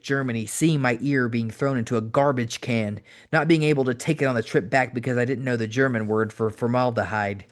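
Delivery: intense, preachy heel promo delivered to Tommy; wrestling promo. Acted. Cactus Jack cutting a promo on Tommy Dreamer, intense and preachy.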